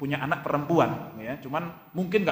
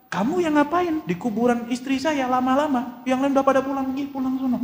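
higher, louder brusque chiding; gruff widower scolding; 9 semitones higher, 4 dB louder than usual. Acted. Widower at his wife's grave tells the girl off, loud higher brusque scolding.

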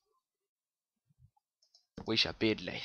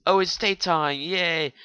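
higher, louder happy cheer; excited; 7 semitones higher, 8 dB louder than usual. Real, not acted. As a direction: cheer for the sunrise.

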